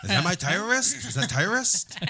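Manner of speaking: put-on very high caricatured Asian accent; mock Asian accent. Goofing around while golfing, in a mock Asian accent. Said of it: "racist Asian impression".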